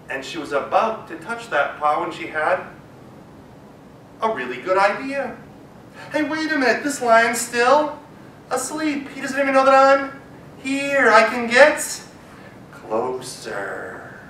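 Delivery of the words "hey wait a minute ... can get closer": sneaky mouse. Acted. Mouse repeats the discovery.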